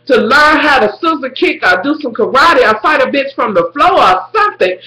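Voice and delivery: high pleading rant at a TV character; a high, pleading plea to a TV heroine; imagined plea to Liv. Retold or imitated. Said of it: "And I'm thinking".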